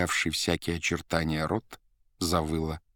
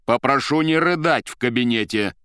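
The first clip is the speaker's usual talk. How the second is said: getting angry; 4 semitones higher, 5 dB louder than usual. A narrator's reading. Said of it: "уже злясь".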